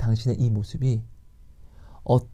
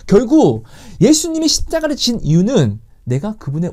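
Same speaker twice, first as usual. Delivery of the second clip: preaching build; 7 semitones higher, 7 dB louder than usual. Real, not acted. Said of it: "preacher rising to climax".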